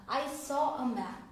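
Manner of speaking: I saw a man said very slowly, word by word; slow demo. Shown as a demonstration. Teacher repeats the example to students, slowly. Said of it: "मैंने एक आदमी को देखा".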